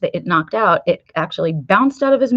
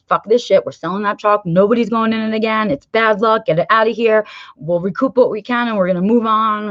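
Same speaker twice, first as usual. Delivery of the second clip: mock angry outburst; 3 semitones higher than usual. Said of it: "My gut response on that drive home".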